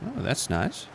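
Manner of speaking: mock Texan "that's nice"; Texan accent. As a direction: say it like a Texan for fun. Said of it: "That's nice" with a Texan accent".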